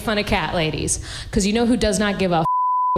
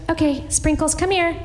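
high, coaxing call to a dog; sweet talk the dog, pitched up; mock dog lady; 8 semitones higher than usual. Dog lady calling her dog, high coaxing. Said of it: "she was just like".

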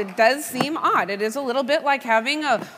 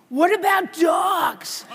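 imitating an excited kid, drawn-out and higher; eager child; 4 semitones higher, much slower than usual. Amazed daughter asking mom for more videos, eagerly. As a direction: stretch it out in mock childlike delight.

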